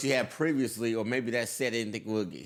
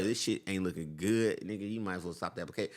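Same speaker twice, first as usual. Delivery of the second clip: blunt banker; 5 semitones lower, 6 dB quieter than usual. Retold or imitated. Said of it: "the first way was the most honest way".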